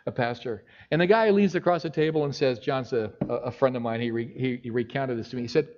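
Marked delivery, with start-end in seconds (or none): 0.1-0.6 soft, embarrassed admission with a nervous laugh; sheepish confession. Retold or imitated. Pastor admitting his job at a celebrity dinner, sheepish and soft. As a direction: stammer it out softly, a little ashamed. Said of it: "he had to confess".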